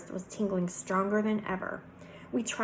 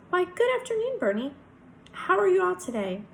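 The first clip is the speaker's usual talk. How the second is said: high, sweet Southern greeting; sweet Southern drawl; 10 semitones higher, 4 dB louder than usual. A narrator's reading. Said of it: "very soft voice and speaks in a sweet southern drawl".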